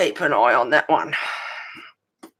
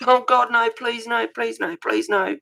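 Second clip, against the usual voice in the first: anguished denial; 6 semitones higher than usual. Real, not acted. Fire truck, pleading it isn't near.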